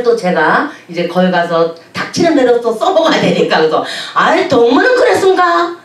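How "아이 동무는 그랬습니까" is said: Hamgyong dialect. Retold or imitated. Preacher using Hamgyong dialect on guide, laughing. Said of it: "함경도 말을 쓰면서".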